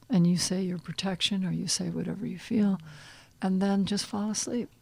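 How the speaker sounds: calm guiding voice with pauses between phrases; guided visualization. Shown as a demonstration. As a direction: gently lead a listener inward. Leads a visualization.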